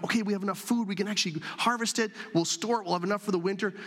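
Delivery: lightly sung, carefree farmers; cheerful singsong. Retold or imitated. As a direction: bounce through it like happy farmers. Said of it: "they'd be like".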